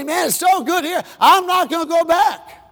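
high, contented sigh of a line; homesick student. Retold or imitated. Preacher voicing a student at home, content. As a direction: sound settled and happy.

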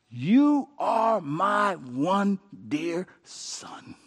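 drawn-out tender blessing; tender, slow. Acted. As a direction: savour each word. Voicing the Father's words.

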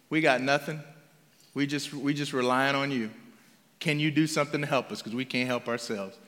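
low, soft, subdued appeal; humble plea. Acted. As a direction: admit helplessness quietly and ask for help. Voicing helpless, humble lepers.

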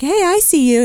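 high-pitched retold hello; acted-out greeting. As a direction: call a high, light greeting to a visitor. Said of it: "and I was like".

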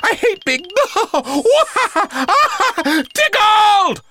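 very high, helpless ticklish wail; laughing protest. A narrator's reading. Professor protests at being tickled, helplessly laughing. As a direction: force the words out through uncontrollable laughter. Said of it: "body was shaking with laughter".

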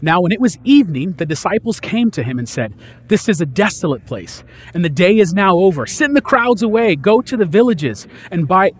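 measured reading of the Gospel to the congregation; scripture reading. Acted. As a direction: read it like the lesson from the pulpit. Reads the scripture passage aloud.

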